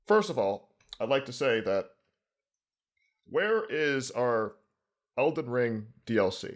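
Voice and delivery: a light statesman voice; elder statesman. Pretend. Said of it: "I was like".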